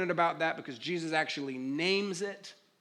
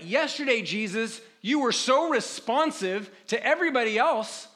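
higher-pitched, mildly indignant protest; aggrieved complaint; 4 semitones higher, 3 dB louder than usual. Acted. Frightened disciple complaining to sleeping Jesus, aggrieved. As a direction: reproach someone who has let you down.

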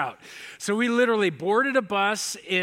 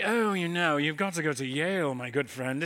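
professor impression; 3 semitones lower than usual. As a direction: imitate a self-assured professor advising a student. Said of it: "this is how he sounds".

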